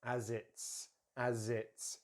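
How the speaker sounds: "as it's" joined as "azits"; reduced, run-together "as it's"; connected words. Shown as a demonstration. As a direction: link "as" into "it's" with a Z. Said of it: "connect these two words together".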